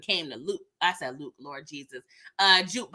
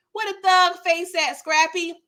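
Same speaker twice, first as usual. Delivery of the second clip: higher, louder exclaim of disbelief; mock shocked exclaim; 6 semitones higher, 3 dB louder than usual. Real, not acted.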